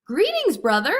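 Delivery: high, loud hail over a din; loud call. A narrator's reading. Hermes calls to Hephaestus over the hammer strikes, loud and high. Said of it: "called out loudly enough to be heard".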